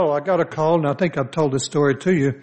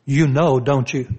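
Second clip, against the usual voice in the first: pointed accusation; 2 semitones lower than usual. Shown as a demonstration. Pastor shows the wrong way she said it, accusing. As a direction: throw it at him like a charge. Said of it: "she didn't say it in that manner".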